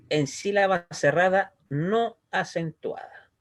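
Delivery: slow rule read with weight on no; slow, deliberate rule. Shown as a demonstration. Teacher slowly stating the grammar rule to the class. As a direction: lay the rule out slowly for students. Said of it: "el kamat es katan, es decir, O".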